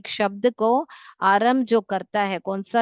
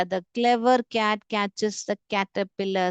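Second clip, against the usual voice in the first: put-on teacher reading an example slowly for kids; slow, stressed k sounds; much slower than usual. Shown as a demonstration. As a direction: read very slowly, hitting each k in "clever cat catches the caterpillar". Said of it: "तो ये जब पढ़ रहे हैं हम, तो एक rhythm create कर रहा है".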